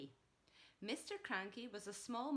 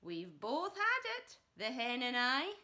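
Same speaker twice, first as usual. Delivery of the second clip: Grandma's voice; 4 semitones higher, 8 dB louder than usual. Acted. Grandma boasting from the roof.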